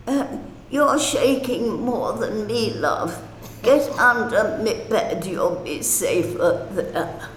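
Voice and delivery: a hint of a Cockney accent, kindly. Frightened patient comforts young nurse, mild Cockney accent. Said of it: "in her real Cockney voice".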